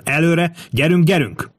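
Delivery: high urgent cry without much added volume; narrated frantic rallying cry; sharp frenzied yell. A narrator's reading. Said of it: "ordította Kato éles, szinte tébolyodott hangon".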